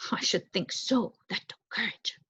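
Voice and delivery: whispered, admiring; hushed praise. Acted. Old mouse praises her.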